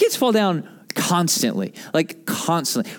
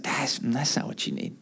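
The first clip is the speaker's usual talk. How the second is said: much softer, low gentle reply; Jesus gently telling us what we need, softer; 6 semitones lower, 10 dB quieter than usual. Retold or imitated. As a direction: say it softly, kindly refusing. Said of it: "And he's like".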